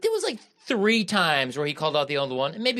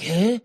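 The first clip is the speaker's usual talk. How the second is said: "Huh?" pitched up as a demanding question; gatekeeper's questioning inflection; 5 semitones higher, 4 dB louder than usual. Retold or imitated. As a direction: mimic a belittling "Huh?", raised in pitch. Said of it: "his inflections where he'd be like".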